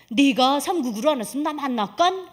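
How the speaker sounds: lightly acted Pyongan regional lilt; Pyongan dialect. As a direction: imitate God answering in a North Korean Pyongan accent. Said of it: "또 평안도 사투리로".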